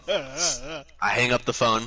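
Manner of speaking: slow, drawn-out "I hang up the phone"; dramatic slow echo; slow repeat. Shown as a demonstration. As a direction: let each word hang. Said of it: "repeats line for effect".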